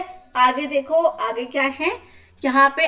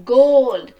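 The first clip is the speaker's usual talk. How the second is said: louder word read aloud; 7 dB louder than usual. Shown as a demonstration. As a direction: call the word out for the class. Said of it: "अब आपको थोड़ा तेज तेज बोलना है". (ज़ोर से बोला गया शब्द)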